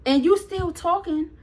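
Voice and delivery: high, drawn-out disbelief; acted-out exasperated confrontation; incredulous jab.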